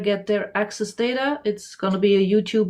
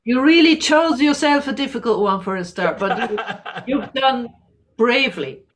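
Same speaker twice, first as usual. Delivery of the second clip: laughing; 2 semitones higher than usual. Real, not acted. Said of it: "laughing praise".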